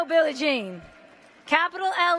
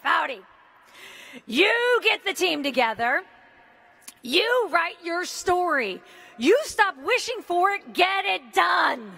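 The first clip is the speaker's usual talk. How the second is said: blunt mentor order; 3 semitones higher than usual. Retold or imitated. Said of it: "She's like".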